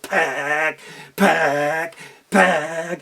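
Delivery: low, slow, heavy pecks; heavy eagle pecks. Acted. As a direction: peck clumsily and hard. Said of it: "it went".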